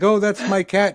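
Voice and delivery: high lightly voiced old lady. Old lady claiming her cat to a rescuer, light high voice. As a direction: squeak it like a startled granny. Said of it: "and she was like".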